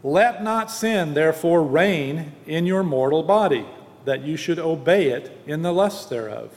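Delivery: measured, emphatic Bible reading; scripture reading. Acted. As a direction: read the verses out deliberately, leaning on key words. Reads the scripture passage aloud.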